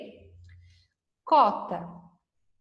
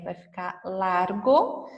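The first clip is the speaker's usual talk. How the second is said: slow and clear; 3 semitones lower, slower than usual. Shown as a demonstration. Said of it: "Se eu colocar o R".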